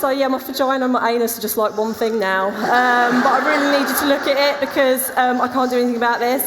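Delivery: high, bright mock-casual chatter to the doctor; mock chirpy patient. Patient to good-looking doctor, breezy mock-casual chatter. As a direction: play it falsely breezy, as if nothing's wrong. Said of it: "and it's like".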